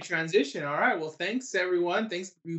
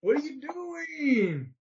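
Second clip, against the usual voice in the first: slow, high, laughing; stretched out through laughter; much slower than usual. Real, not acted. Laughing at his giggling partner.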